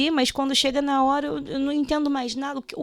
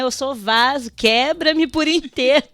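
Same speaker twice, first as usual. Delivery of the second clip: rising, louder surrender plea; fervent prayer; 2 semitones higher, 7 dB louder than usual. Retold or imitated. Quoting the worshipper's prayer, rising and louder. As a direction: cry it out as a broken vessel.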